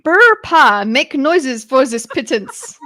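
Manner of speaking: growly villain rolling his r's; Hydra's voice. Pretend. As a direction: trill the r like a villain. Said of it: "Do it in, uh, Hydra's voice".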